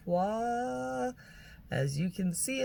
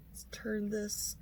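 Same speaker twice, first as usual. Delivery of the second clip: whispering; 4 semitones higher, 7 dB quieter than usual. Real, not acted. Fiddling with the palette.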